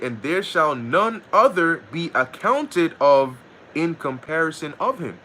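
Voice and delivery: slow, measured Bible reading; slow King James reading voice; scripture reading. Acted. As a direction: read the verse out solemnly like scripture. Reads scripture verse.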